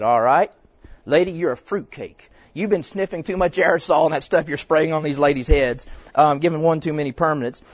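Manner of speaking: loud, sarcastic brush-off; mock scoff. Pastor mocking the reply he could have given the hairdresser, loud and scoffing. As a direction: play the scornful dismissal for laughs.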